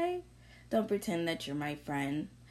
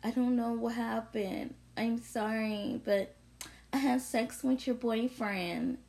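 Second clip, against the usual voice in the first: lightly higher, fake-sorry phone confession; mock apology; 5 semitones higher than usual. Mocking the friend calling to confess, a lightly higher fake-sorry voice. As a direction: whine it like a guilty excuse. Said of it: "and call me on the phone and be like".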